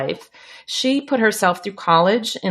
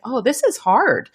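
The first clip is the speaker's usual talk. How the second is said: higher-pitched pretend complaint; mock whiny; 6 semitones higher than usual. Guest voicing a caregiver's complaint, mock whiny. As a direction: imitate a little whine about the burden. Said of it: "you know, and whiny".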